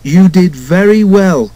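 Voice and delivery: gently emphatic praise from the driver; comforting. A narrator's reading. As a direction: reassure a worried friend, drawn out. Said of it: "comforted his driver".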